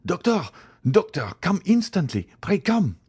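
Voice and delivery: high, urgent calls for the doctor; frantic summons in short high bursts; crying out. A narrator's reading. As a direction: call out in alarm, pitch way up. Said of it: "crying out".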